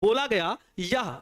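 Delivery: slow, measured teaching delivery; slow right down for the learners; deliberately slowed down. Shown as a demonstration. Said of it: "speed थोड़ा धीरे कर रहा हूँ".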